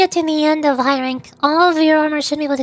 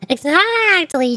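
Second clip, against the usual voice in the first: emphatic agreement; 4 semitones higher, much slower than usual. Real, not acted. Streamer eagerly agrees with chat.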